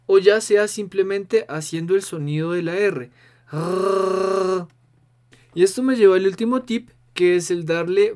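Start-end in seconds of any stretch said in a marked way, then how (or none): 3.5-4.7 pencil in teeth. Shown as a demonstration. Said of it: "con el lápiz en la boca".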